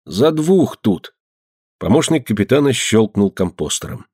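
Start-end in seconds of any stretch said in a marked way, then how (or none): 0.0-1.1 slow, drowsy mumble; sleepy mumble. A narrator's reading. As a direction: mumble it half asleep. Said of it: "сонным голосом пробормотал".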